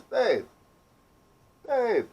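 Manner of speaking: high, urgent cry for help, imitating his wife; panicked wife. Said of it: "you know, panicking".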